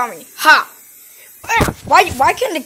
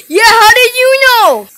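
shocked; 7 semitones higher, 6 dB louder than usual. Acted. Shocked reply.

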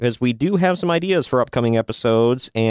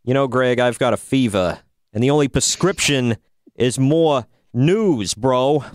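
put-on New York accent. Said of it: "you do a New York accent".

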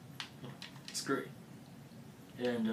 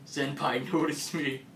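excited anime fan; 3 semitones higher, 6 dB louder than usual. Retold or imitated. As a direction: gush like a fan who got noticed. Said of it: "Also, yay, I get featured".

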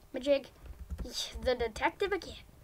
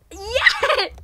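excited cheer; 7 semitones higher, 8 dB louder than usual. Real, not acted. Finally murderer role.

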